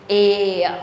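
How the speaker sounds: "a" drawn through three joined vowels; three-sound glide. Shown as a demonstration. Teacher letting students hear three sounds in one glide. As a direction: glide "a" from vowel to vowel, ending on schwa. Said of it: "you hear three sounds".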